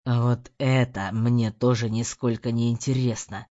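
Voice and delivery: low, grating menacing voice; menacing rasp. A narrator's reading. Husband menacing the maid, low grating threat. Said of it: "проскрежетал муж таким страшным и грозным голосом".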